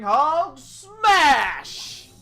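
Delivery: big angry monster roar; Hulk smash shout. Acted. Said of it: "Oh, his references".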